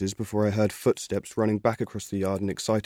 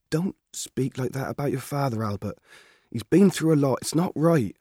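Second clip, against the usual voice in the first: higher, louder country mother telling him off; mother scolding her son, stern; 6 semitones higher, 3 dB louder than usual. Acted. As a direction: warn the boy firmly. Mother rebukes Albert.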